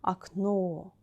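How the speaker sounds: Окно stressed on final о; stress on last O. Shown as a demonstration. Teacher models the singular for learners, final stress. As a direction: say akNO, weight on the end. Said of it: "the last letter O is stressed".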